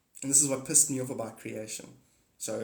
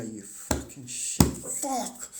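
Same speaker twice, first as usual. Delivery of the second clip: mock frustrated snap; much slower than usual. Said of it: "And then I'm gonna go".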